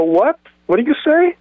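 mock-indignant what did you say, pitch climbing; retold challenge. Narrator confronting the snarky teens, indignant rising challenge.

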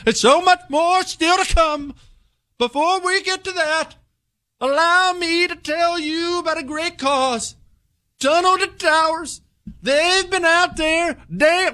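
very high, stretched-out put-on oratory; mock politician voice. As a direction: keep up an absurd high parody voice through the read. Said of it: "speak like normal people".

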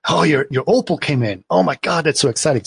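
mildly excited acted quote. Father-in-law thrilled by the opal, mildly excited. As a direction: imitate an enthralled man, only lightly. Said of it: "he's obviously enthralled by this, excited".

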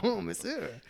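hammed-up French accent; mock French. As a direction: play at being French, breaking into a laugh. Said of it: "Should I try French?".

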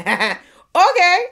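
high, loud startled okay; a dazed, overwhelmed okay; stunned okay. Retold or imitated. Newcomer takes it in, a high startled okay. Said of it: "he just went".

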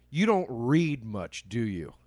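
slow, pointed mock condescension; insulting put-down. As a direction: imitate a snide put-down, drawn out slowly. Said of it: "it's so insulting".

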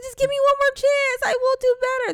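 put-on high, loud begging kid; pleading child voice. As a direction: beg like a desperate child. Daughter begging not to be punished.

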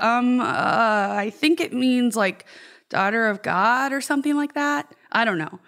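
stumbling, unsure. Retold or imitated. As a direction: fumble like you can't remember. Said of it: "stumbling over her words".

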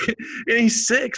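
amused emphasis that he's only six; stressing his age. Real, not acted. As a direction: lean hard on "he's six", slowly. Stressing the son's young age.

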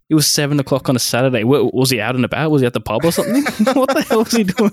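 mock outrage climbing into a laugh; comic disbelief, rising to a high laughing finish; incredulous rant. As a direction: fire off exasperated questions, pitch climbing high. Mock outrage at the missing mechanic.

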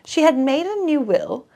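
measured audiobook reading with voiced dialogue; story narration. A narrator's reading. Reader narrating a detective novel to listeners, audiobook manner. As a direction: read the mystery to a listener, steady and clear. Reads a mystery novel aloud.

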